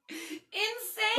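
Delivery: high emphatic cry; exclaiming. Real, not acted. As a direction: shout it out amazed.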